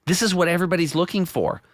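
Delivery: like you just found the answer to everything; excited retelling. Retold or imitated. Excited retold quote to friend.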